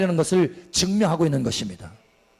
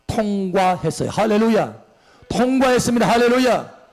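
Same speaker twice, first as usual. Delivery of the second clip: triumphant proclamation. Acted.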